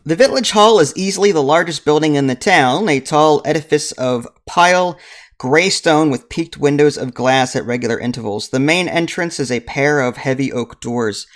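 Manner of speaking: steady storybook reading voice; story narration. A narrator's reading. Game master reading the village scene to players, narration. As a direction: read the scene aloud like a narrator. Reads the adventure book aloud.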